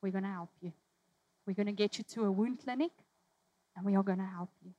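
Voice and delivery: put-on soft, low reassurance to a sick old man; soothing a dying grandfather; gentle reassurance. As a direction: comfort him softly. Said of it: "we're like".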